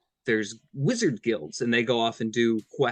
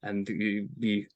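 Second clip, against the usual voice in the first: big brawny Russian tough man; Russian accent; 2 semitones lower than usual. Shown as a demonstration. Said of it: "Russian accent".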